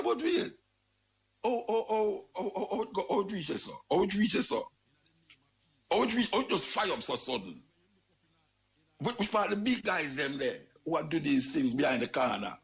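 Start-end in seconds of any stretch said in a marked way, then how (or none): 0.0-7.6 high, startled yelps of alarm; startled exclaim. Retold or imitated. Man recalling gunfire, startled high exclaiming. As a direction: jolt up in alarmed surprise. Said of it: "Me I say".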